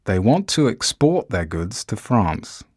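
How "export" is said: "export" stressed on the second syllable, ex-PORT; stress on last syllable. Shown as a demonstration. Teacher reading an example sentence, "export" stressed on its last syllable. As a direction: say "export" as a verb, weight on PORT. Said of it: "Stress on the last syllable".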